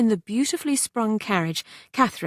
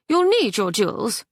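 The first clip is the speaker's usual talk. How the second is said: French mother insisting; 3 semitones higher than usual. Acted.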